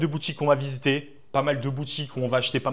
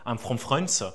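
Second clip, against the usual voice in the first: put-on French-accented English. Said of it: "ça va peut-être vous faire rire parce qu'on a un accent anglais".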